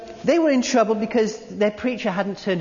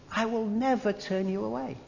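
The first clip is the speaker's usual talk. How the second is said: softer, lingering on never; tender promise; 2 semitones higher, 5 dB quieter than usual. Shown as a demonstration. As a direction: reassure the listener gently. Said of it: "making a point forcibly".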